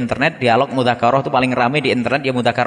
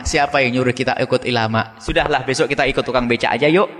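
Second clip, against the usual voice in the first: joking. Retold or imitated. Preacher joking back at the angry professor, lightly joking. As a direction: toss it off as a casual joke, at usual pitch. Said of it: "Ya, saya guyonan".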